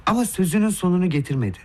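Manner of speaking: ordinary delivery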